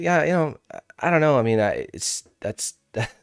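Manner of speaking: amused take on someone hemming and hawing; imitating his hesitant delivery. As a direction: stumble through it like someone searching for words. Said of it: "just the way he says it".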